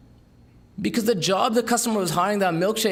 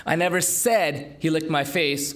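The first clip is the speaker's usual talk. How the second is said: "never" hit and drawn out, slower overall; stress on NEVER. Shown as a demonstration. Speaker demoing word stress to an audience, leaning on "never". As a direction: dwell on "never" to deny saying it. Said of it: "emphasize different words".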